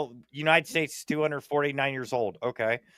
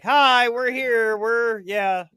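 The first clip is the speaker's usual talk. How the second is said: wary alien message; 4 semitones higher than usual. Retold or imitated. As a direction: start bright, then sink into a secretive warning. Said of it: "be like".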